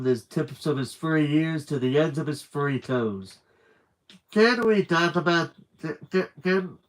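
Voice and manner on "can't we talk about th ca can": a touch of squeaky stammer; lightly voiced scared stutter; squeaking. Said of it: "he squeaked".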